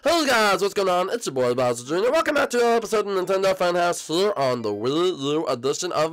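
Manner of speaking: sunny, singsong host voice; upbeat Bowser Junior. Acted. Bowser Junior welcoming viewers back to the Funhouse, upbeat. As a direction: greet viewers with stretched-out cheer.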